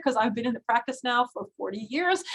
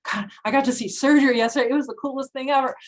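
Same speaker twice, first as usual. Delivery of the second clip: excited student; 3 semitones higher, 4 dB louder, faster than usual. Retold or imitated. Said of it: "if you light up when you talk".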